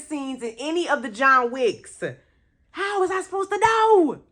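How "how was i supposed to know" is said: high-pitched, whiny self-defence; exasperated protest. Real, not acted. Viewer defending a missed scene to Dad, exasperated. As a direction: wail it in protest. Protesting to Dad's chat comment.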